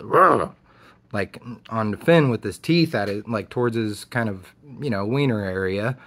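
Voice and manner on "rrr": dog growl imitation. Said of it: "immediately goes".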